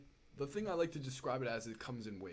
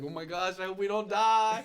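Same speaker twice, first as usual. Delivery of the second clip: higher, louder, imitating a panicking buddy; mock panicky friend; 7 semitones higher, 13 dB louder than usual. Retelling friend Pat's fear on the plane, loud and panicky. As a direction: ham up a scared friend's squeal. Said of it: "Pat started getting nervous".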